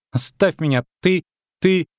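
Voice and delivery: put-on high girlish protest; indignant little girl. A narrator's reading. Caught girl to the witcher, indignant. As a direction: stammer the protest in a high child's voice.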